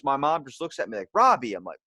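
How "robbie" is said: high, loud imitation of a scandalized mom; mock scolding. Mom reacts to her son's remark, mock scolding. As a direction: say the name as a retold reproach.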